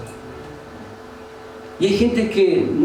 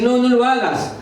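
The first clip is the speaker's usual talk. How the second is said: higher-pitched voice of discouragement; acted naysayer, pitched up; discouraging voice; 3 semitones higher, slower than usual. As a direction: mimic someone talking you out of it. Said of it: "que te van a decir".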